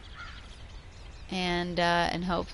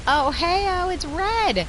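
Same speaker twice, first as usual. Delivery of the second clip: excited shout; 12 semitones higher, 8 dB louder than usual. Real, not acted. Spotting the red fish.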